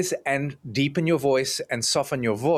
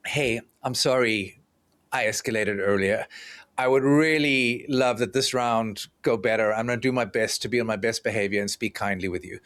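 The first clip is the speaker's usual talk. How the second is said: soft apologetic voice; 4 semitones lower than usual. Retold or imitated. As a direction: apologize softly to calm your partner. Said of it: "You soften your voice".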